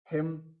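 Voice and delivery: हिम ending on M, no N after it; silent N. Shown as a demonstration. Teacher showing learners silent N, हिम ending on M. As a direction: close हिम on the M sound. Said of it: "एन क्या है, silent है".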